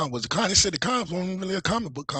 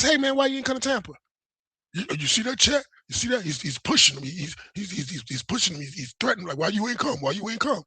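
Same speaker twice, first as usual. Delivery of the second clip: higher, quick parody of Ethan's spin; mocking accuser; 4 semitones higher than usual. Streamer parodying Ethan claiming he's being threatened. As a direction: ham up the fake outrage. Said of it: "All he said was".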